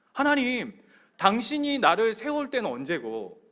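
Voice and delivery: loud, reproachful stage cry; mock anguished outcry. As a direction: re-enact a loud protest to God. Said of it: "절규하는 거예요".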